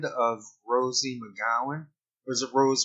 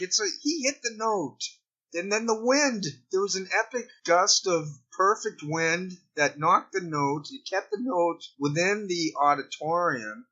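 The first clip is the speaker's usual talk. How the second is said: much higher and building, mock play-by-play; mock commentator calling a big Note Ball shot, excited; excited sports announcer; 7 semitones higher than usual. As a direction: call the shot like a hyped commentator.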